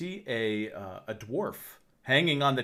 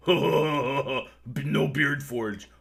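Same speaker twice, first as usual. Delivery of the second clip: slow, dim-witted chuckling echo; a dumb brute giggling and repeating, drool in the mouth; second bugbear echoing the joke, slow and giggly; drooling bugbear laugh; 3 dB louder, much slower than usual. Acted. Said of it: "the other one just goes".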